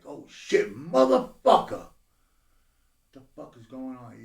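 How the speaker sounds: shock sinking into confusion; the last question slowed right down; retold disbelief. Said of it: "I was like".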